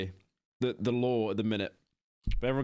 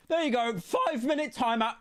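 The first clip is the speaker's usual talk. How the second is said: voice cracking; 10 semitones higher than usual. Real, not acted. Streamer handing out a timeout, voice cracking high. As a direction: voice breaks up high mid-sentence. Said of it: "my voice broke".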